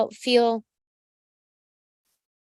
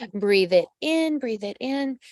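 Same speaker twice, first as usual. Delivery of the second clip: slow, soothing breath cue; guided breathing. Shown as a demonstration. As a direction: lead the viewer into a slow breath. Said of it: "Tune into your gut".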